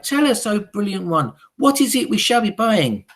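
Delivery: high, loud eager hag voices; high witch chorus. Acted. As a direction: agree like fawning followers. Witches flatter their leader.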